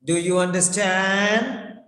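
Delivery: "understand?" as a question with a rising tone. Shown as a demonstration. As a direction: let "Do you understand?" climb at the end. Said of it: "Rising tone".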